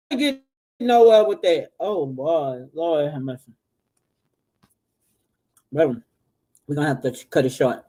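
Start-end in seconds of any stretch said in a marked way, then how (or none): 1.8-7.8 eating while talking. Real, not acted. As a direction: mouth full of food. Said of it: "I'm sorry, I'm eating".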